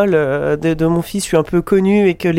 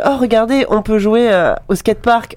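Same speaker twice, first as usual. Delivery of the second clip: mock trailer excitement; 4 semitones higher than usual. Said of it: "ça dure quatre minutes de".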